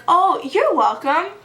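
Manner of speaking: mock-smug date voice; smug reply. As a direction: play him smug and pleased with himself. Date smugly accepts her thanks.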